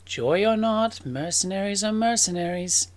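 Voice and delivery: disapproving warning. Acted. Sister warns against trusting mercenaries.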